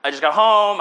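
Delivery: loud, reluctant "uh" of excuse; put-upon friend. Acted. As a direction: play a friend dodging a visit out loud. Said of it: "them being like".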